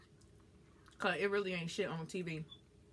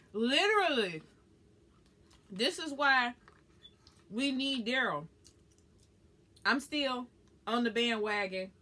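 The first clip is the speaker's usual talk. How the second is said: higher and louder, eager; excited fan insistence; 4 semitones higher, 3 dB louder, slower than usual. Real, not acted. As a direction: push it like a devoted fan.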